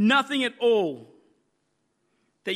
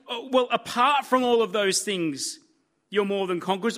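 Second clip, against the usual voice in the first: light dismissive "apart" with a shrug in the voice, not what God says; mock hedging. Preacher mocking the wrong version of God's promise. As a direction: toss off "Oh, well, apart from" like a grudging caveat. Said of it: "He doesn't say".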